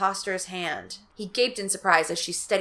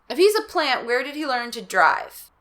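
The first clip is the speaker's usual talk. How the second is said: alarmed; 5 semitones higher than usual. Acted. Mother alarmed.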